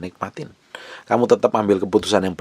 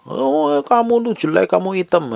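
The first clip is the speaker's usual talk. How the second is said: very high, put-on taunting voice; mock insulting. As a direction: imitate someone jeering in a much higher voice. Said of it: "Kalau orang lain jelekin". (menirukan ejekan dengan suara melengking tinggi)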